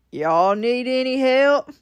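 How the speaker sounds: slow, lightly voiced stranger; a hint of a friendly passerby drawl; slowly voiced helpful stranger; stranger's offer. Stranger offering help, retold.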